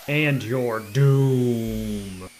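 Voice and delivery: slow, dragged-out doom voice; wild unhinged ranting. Acted. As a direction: intone doom like a villain. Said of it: "Evil laugh".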